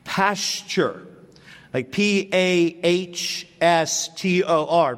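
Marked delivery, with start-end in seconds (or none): 0.0-1.1 "pasture" said with a sh sound in the middle; pronounced "pasture". Shown as a demonstration. Preacher showing how the word is pronounced, "pasture" with a soft sh. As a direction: say "pasture" as PASS-cher. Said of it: "is pronounced".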